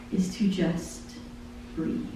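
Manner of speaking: fading to a soft breath; trailing into a hush. Acted. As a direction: let it die away softly. Lyric refrain fading to hush.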